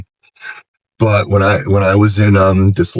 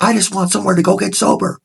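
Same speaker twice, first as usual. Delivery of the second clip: mock yelling back; 12 semitones higher than usual. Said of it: "he's yelling. And I'm like".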